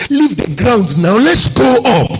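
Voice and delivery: rising preacher's shout. Real, not acted. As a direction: build to a loud, high cry. Preacher shouts, climax of appeal.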